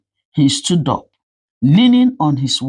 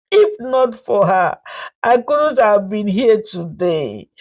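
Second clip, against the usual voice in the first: tearful confession; 5 semitones higher than usual. Acted. Mother-in-law confessing to the family, tearful plea. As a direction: beg forgiveness through tears. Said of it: "Tears poured down her face".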